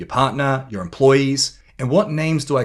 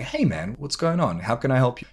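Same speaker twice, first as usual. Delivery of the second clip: softer, easygoing check-in; supportive boss; 4 dB quieter than usual. Acted. Boss to employee who slipped up, calm and supportive. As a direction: offer help without any blame. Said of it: "Instead of saying".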